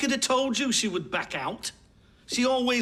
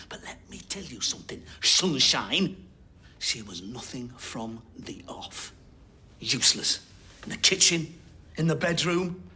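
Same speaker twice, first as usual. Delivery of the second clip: cold contempt; 8 semitones lower than usual. Acted. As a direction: sneer it out, coldly dismissive. Defendant sneers at prosecutor.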